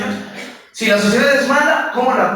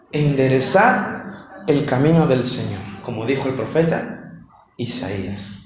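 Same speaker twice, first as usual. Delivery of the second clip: low prophetic proclamation; 7 semitones lower, 3 dB quieter than usual. Acted. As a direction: intone it like a prophet crying out. John proclaims in the desert.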